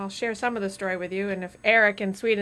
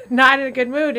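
laughing; 4 semitones higher, 9 dB louder than usual. Real, not acted. Laughing after whisper.

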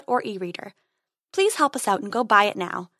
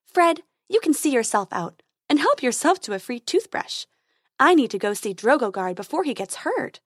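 higher fairy voice, businesslike; fairy dentist; 3 semitones higher than usual. Acted. Tooth Fairy hurries off to see Drogogard, higher fairy voice. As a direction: send the patient off in a high voice.

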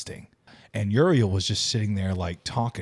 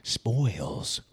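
show announcer; 3 semitones higher, much slower than usual. Acted. Podcast host launching the spoilers, dramatic announcer. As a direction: announce it big, stretching the last word.

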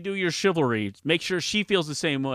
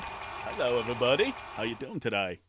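Forrest Gump voice; 3 semitones lower than usual. Acted. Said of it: "Please welcome Forrest Gump".

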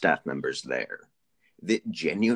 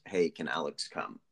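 tentative ask; 4 semitones lower, 5 dB quieter than usual. Retold or imitated. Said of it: "Clyde finally asks".

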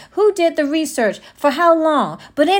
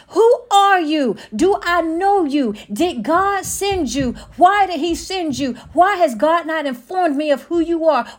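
demanding questions; 3 semitones higher than usual. Retold or imitated. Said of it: "Eve should have asked".

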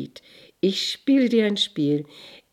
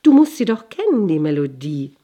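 higher, louder excited cry; jester calling out; 3 semitones higher, 8 dB louder than usual. A narrator's reading. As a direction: shout it gleefully like a fool tumbling. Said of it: "rief er".

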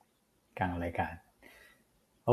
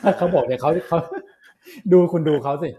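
laughing teasing; 4 semitones higher, 4 dB louder than usual. Real, not acted. Teasing co-host, laughing excitedly.

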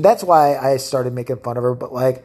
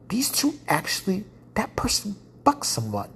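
whisper; 4 semitones higher, 7 dB quieter than usual. Retold or imitated. Continues whispered realization.

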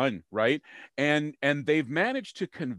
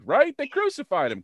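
high, loud emphatic punch; 13 semitones higher, 5 dB louder than usual. Real, not acted. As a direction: hit it hard and high. Punchline about crucifixion.

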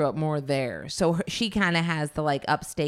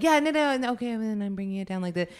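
higher, louder, fast rambling; imitating loud friend; 6 semitones higher, faster than usual. Speaker imitating her loud friend Nellie, higher and faster. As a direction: mimic her chatter at full volume. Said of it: "she'll just be like".

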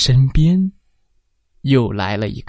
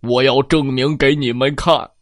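roaring giant. Acted. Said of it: "巨人咆哮着".

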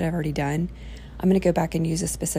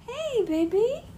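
exaggerated cartoon intonation; slower than usual. Real, not acted. Mother greeting her baby.

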